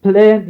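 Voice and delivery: بلان said slowly and clearly; english word plan. Shown as a demonstration. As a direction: pronounce بلان carefully like Google does. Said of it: "تكتب كلمة بلان". (نطق بلان بوضوح زي جوجل)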